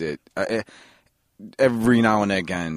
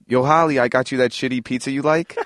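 calling out a line in character; 3 semitones higher than usual. Retold or imitated. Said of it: "'cause I was like".

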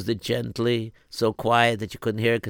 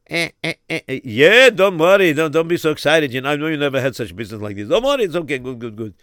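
stammering caterer; 2 semitones higher, 5 dB louder, faster than usual. Acted. Caterer voiced in story.

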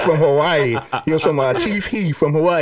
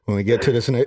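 calmly; 6 semitones lower than usual. Retold or imitated. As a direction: keep it cool like a movie hero. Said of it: "you just said it so calmly".

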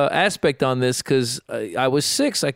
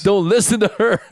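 higher, insistent dad plea; mock urgent plea; 7 semitones higher, 4 dB louder than usual. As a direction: warn the child off, hammed-up. Mock father turning child against mom.

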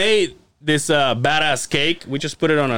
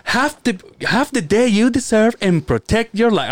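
lightly imitated radio promo, pitched up; a hint of higher-pitched announcer; radio intro voice; 5 semitones higher than usual. Friend retelling a buddy's radio intro, lightly put-on promo voice. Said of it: "this chick that talks on the radio".

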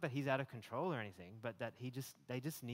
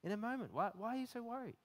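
higher, urgent rebuke about time; exasperated Jesus; 6 semitones higher than usual. Retold or imitated. Jesus rebuking a busy, worried listener, higher urgent voice. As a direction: press every question home, lovingly impatient. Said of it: "He's like".

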